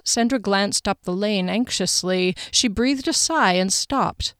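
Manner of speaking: measured, even audiobook reading; story narration. A narrator's reading. Narrator sets the scene in Sandra's kitchen, measured storytelling. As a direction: read the scene evenly and carefully. Reads the novel aloud.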